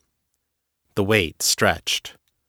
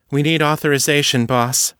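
higher female voice reporting to the boss; brisk young agent, voiced higher; 6 semitones higher than usual. A narrator's reading. Kelsey speaks, female agent.

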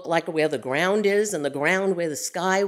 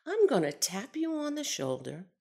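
a steady, matter-of-fact calm; 4 semitones higher, 4 dB quieter than usual. Retold or imitated. Bill calmly warning Irma before the flight, steady calm. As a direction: say "I'm gonna tap you on the shoulder" calmly and evenly, with a straight face. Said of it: "the most calm tone".

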